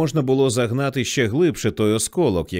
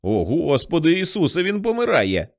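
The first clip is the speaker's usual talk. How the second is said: panicked cry; 6 semitones higher than usual. A narrator's reading. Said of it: "скрикнув".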